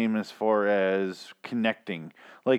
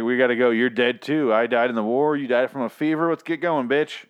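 louder, pushy retold husband; mock husband; 4 dB louder than usual. Retold husband hurrying his wife along, louder and pushy. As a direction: bark it like an impatient ghost husband.

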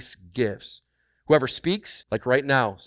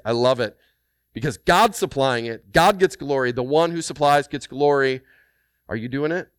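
normal talking voice

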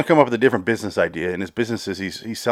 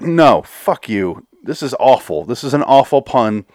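slow, disgusted "fuck you"; fed-up anger; 3 dB louder, slower than usual. Real, not acted. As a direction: spit it out in disgust. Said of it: "made me fucking angry".

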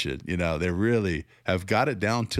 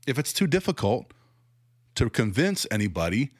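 incredulous; 5 semitones higher than usual. Real, not acted. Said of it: "It's laughable".

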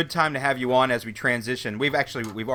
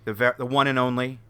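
podcast host intro. Acted.

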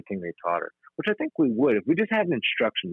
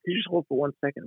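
higher, friendly apology voice; sweetly apologetic to a client; polite work voice; 7 semitones higher than usual. Retold or imitated. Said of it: "I'm like".

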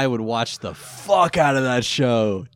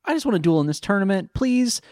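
high pleading victim voice; whiny pleading; 11 semitones higher than usual. Retold or imitated. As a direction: beg for the cards back. Voicing pleading mugging victim.

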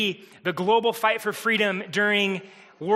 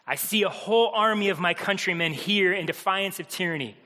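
put-on a mild Braveheart rallying cry without the accent; rally the troops, lightly; rousing battle speech. Mel Gibson's speech to the Scottish armies, mildly rousing. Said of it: "he gives this rousing speech".

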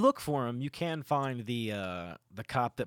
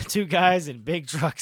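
drawn-out, louder, higher echo; gleeful relish; 5 semitones higher, 6 dB louder, slower than usual. Real, not acted. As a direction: savour every word with rising glee. Echoes story setup with relish.

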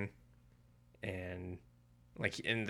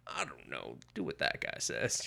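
dopey chaperone; 6 semitones lower, 5 dB quieter than usual. Retold or imitated. Clueless chaperone admits no plan.

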